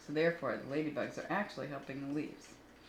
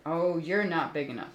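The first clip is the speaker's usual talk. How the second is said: loud boast; 6 dB louder than usual. Acted. Grouchy ladybug boasting.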